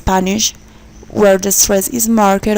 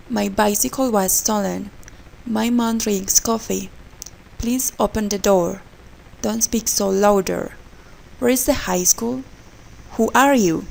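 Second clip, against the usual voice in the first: each sentence from "My bicycle" to "Who are you" rises, then falls at the end; two-three-one tune, falling at the close of "My bicycle was stolen"; rise-fall intonation. Shown as a demonstration. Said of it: "rise and fall in intonation".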